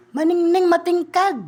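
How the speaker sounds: loud, high exclaim; hammed-up admiration; gushing praise. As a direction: gush over it loudly. Praising polish loudly.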